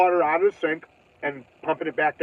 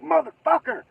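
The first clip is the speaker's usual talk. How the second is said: high-pitched exasperated curse; frustrated curse; 11 semitones higher than usual. Retold or imitated. Water spills again, high exasperated curse. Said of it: "I'm like".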